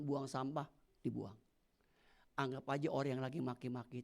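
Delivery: a patient driver calmly explains; gentle reflective voice; calm taxi driver. Retold or imitated. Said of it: "Dia bilang gini".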